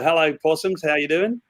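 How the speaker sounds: lightly attempted Australian accent; hint of Australian twang. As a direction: have a modest go at an Australian greeting. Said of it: "might end up doing an Australian accent".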